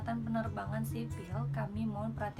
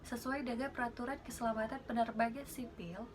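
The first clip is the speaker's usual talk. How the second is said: flight attendant announcement. Shown as a demonstration. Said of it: "aku tahan napas, tahan napas di perut".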